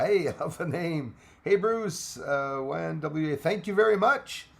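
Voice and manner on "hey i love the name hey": ordinary talk, nothing marked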